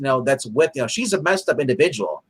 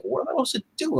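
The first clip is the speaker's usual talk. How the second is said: mock helpless Rick; 13 semitones higher, 8 dB quieter, much faster than usual. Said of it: "He's like".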